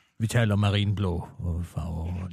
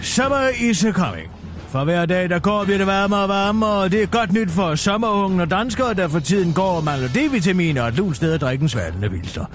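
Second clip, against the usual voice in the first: news read. Acted. Reads a radio newscast.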